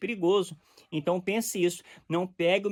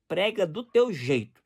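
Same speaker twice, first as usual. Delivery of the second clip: slow, calm prega do teu jeito; mild calm preacher voice; gentle preaching; slower than usual. Shown as a demonstration. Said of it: "pregação mansa e tranquila".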